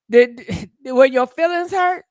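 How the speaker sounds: teasing through laughter; giggling mock sympathy; laughing tease. Real, not acted. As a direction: laugh while needling them.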